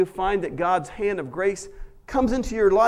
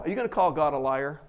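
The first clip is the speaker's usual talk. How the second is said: normal talking voice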